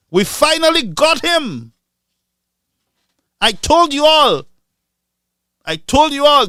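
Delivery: high, loud triumphant crowing; mock gloating. Imitating gloating hacks, high loud triumphant crowing. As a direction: crow over a rival's downfall.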